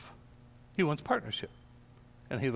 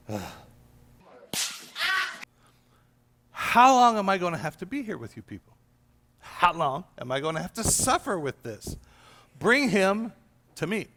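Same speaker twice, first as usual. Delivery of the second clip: frustrated Jesus. Acted. Jesus fed up with his faithless disciples, exasperated. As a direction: let the impatience with the disciples spill out. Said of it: "but he gets frustrated".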